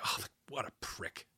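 hushed, unvoiced scornful aside; dismissive quote. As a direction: breathe it out like a contemptuous put-down. Keith dismissing Warhol, retold.

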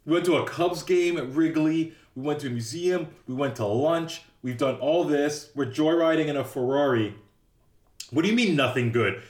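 lightly acted disbelief; mock incredulous protest. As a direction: imitate a friend protesting, item by item. Acts out Ferris protesting to Cameron.

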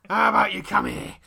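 loud, slow put-on Cockney; hammy Cockney quiz-host invitation; Bradley Walsh. Host calling a contestant onto the chase, broad Cockney. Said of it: "the only Cockney voice I can do".

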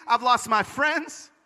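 high, drawn-out protest; anguished re-enacted accusation; angry at God. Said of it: "I was so angry at God".

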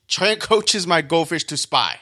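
careful line reading. Shown as a demonstration. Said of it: "That is a tricky line".

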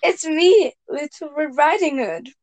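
put-on a light girl's voice at the door; Red Riding Hood voice. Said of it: "you can read that again".

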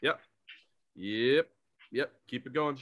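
a hint of a greedy executive pitching; mock executives. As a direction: play a studio boss rubber-stamping a sequel. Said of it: "They're just like".

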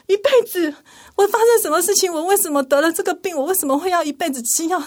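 high, pleading questions on the edge of tears; anguished questions. Retold or imitated. Woman hit by a lifelong diagnosis, anguished and high. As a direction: ask why like it's all falling apart. Retelling her panic at diagnosis.

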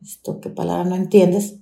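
repeating "entiendes" at her own pitch, incredulous; bitter echo. Retold or imitated. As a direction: turn the boss's words over in disbelief, at your normal pitch. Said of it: "me dije". (repitiendo "entiendes" incrédula, en voz normal)

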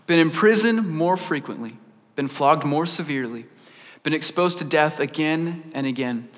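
measured, solemn recitation of a list; scripture reading. A narrator's reading. Paul listing his sufferings, read in measured recitation. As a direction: read out a litany of hardships, phrase by phrase.

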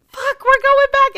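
loud determined cry. Retold or imitated. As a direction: announce it loud and decided. Decides to return.

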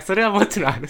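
「それはもちろんある」 high and loud; 「それは」を高く強く押し出す; emphatic insistence. Real, not acted. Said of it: "じゃあ、それはもちろんある". (強く言い切る)

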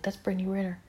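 whisper, no voice at all; hushed whisper of an overheard voice; whispered voice heard. Retold or imitated. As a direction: breathe it like a secret voice in her head. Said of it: "it's like".

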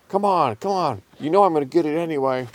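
high, hurried coaxing; pushy cartoon cat, speeding up; pestering cat. A narrator's reading. Randy pesters Tom for food.

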